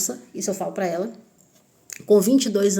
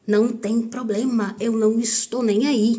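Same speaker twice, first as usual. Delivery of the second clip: defiant indifference; 3 semitones higher than usual. Retold or imitated. Acted defiant reply to a threat.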